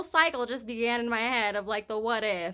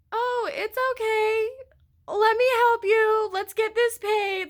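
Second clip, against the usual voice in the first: sweet clerk; 10 semitones higher, slower than usual. Retold or imitated. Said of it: "she was so nice and so sweet to me".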